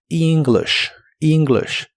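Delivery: "English" with long i start and short i; "English" said twice, long then short i; model word. Shown as a demonstration. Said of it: "como una I larga".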